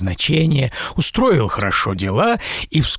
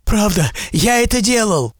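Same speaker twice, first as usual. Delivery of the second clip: merchant admitting; 9 semitones higher than usual. A narrator's reading. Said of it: "сказал купец".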